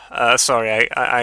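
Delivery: throat catching on dust; hoarse after swallowing dust. Real, not acted. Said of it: "I got some dust in my, uh, throat".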